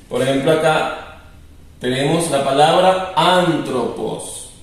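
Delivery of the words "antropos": "antropos" read out slowly; lectura del griego. Shown as a demonstration. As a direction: sound out "antropos" for Greek learners. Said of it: "saber leer esta palabra". ("antropos" leído despacio en griego)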